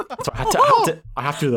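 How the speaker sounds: fast, high laughing. Real, not acted. GM laughing while explaining the voice. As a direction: rush it through laughter. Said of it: "to get me in the voice of Mickey Mouse".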